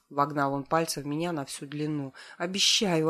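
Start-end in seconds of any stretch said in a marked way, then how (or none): 2.4-3.1 a hint of whimpering plea. A narrator's reading. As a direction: whimper the promise lightly. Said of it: "прохныкала я". (с лёгким хныканьем)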